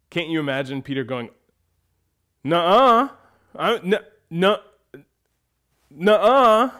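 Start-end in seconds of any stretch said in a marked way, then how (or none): 2.4-6.7 loud, higher, stammering denial; Peter's bravado. Retold or imitated. Peter denying he will deny Jesus, loud blustery. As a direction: refuse it with cocky bluster. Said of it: "filled with bravado".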